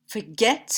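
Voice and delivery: "Forget" with stress on GET, for light; stress on second syllable. Shown as a demonstration. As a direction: lean on GET in "Forget", rising at the end. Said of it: "qui est accentué sur la deuxième".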